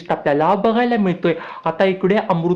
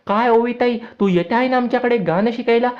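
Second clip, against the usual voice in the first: put-on pitched up for the young boy Abir; eager small boy, voice raised high; little boy Abir; 6 semitones higher than usual.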